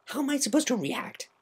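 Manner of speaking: a tomboy admitting she didn't know; Rainbow Dash voice. Acted.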